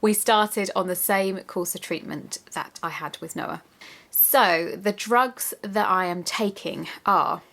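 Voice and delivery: short of breath, slow and effortful; breathless pregnancy talk. Real, not acted. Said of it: "sorry, I'm really out of breath".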